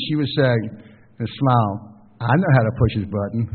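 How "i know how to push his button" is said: imitated Tennessee accent; a wife's Tennessee twang, lightly imitated. Preacher quoting a friend's wife about teasing her husband, light Tennessee accent. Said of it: "with that Tennessee accent".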